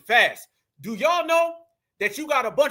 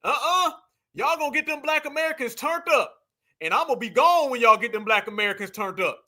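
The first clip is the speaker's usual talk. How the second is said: mocking her; 4 semitones higher than usual. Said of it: "She said".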